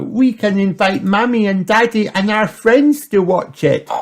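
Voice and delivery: put-on high, loud eager girl; excited. A narrator's reading. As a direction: rush on with excitement. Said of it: "cried Peppa".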